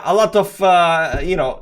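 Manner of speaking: ordinary delivery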